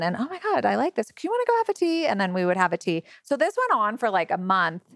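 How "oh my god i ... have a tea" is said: imitating him, much higher and fast; bubbly retold invitation to tea, sped up; excited imitation. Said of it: "he shows up again".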